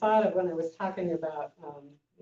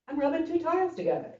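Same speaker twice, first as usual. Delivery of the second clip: teacher's reply; 10 semitones higher, faster than usual. Retold or imitated. Teacher answers monk.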